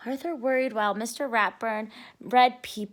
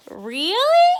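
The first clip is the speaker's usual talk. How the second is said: eager; 8 semitones higher, 7 dB louder than usual. Acted. Binky eager for the trick.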